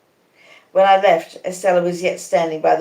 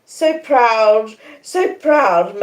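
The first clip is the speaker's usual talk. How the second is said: louder, higher moan; 5 semitones higher, 6 dB louder, much slower than usual. A narrator's reading. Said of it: "moaned Miss Havisham".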